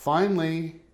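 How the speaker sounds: normal talking voice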